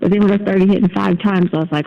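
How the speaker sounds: usual speaking voice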